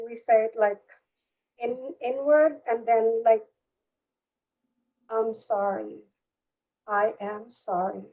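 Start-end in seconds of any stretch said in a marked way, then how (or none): 5.1-8.1 slow, heartfelt apology with pauses between; from deep inside. Shown as a demonstration. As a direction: say it inwardly, letting each one settle. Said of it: "you're going very deep inside. You're saying it from inside".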